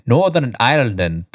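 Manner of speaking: a quick put-on Northern Irish lilt on "Northern Ireland"; a hint of Northern Irish accent on "Northern Ireland". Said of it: "Was that your Irish accent?".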